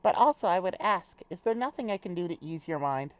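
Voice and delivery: formal speech, lightly British; little British accent. Acted. Character reassures friend before a departure, lightly British formal voice. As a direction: give a stately pep talk with a hint of British. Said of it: "do a little British accent".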